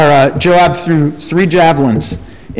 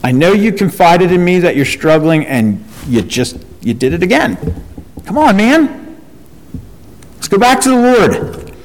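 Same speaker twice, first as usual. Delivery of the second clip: friend's rebuke. Retold or imitated. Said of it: "I said".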